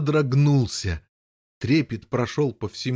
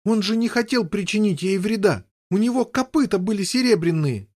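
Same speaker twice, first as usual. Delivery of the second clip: upset protest; 8 semitones higher than usual. Acted. Boy protesting to brother.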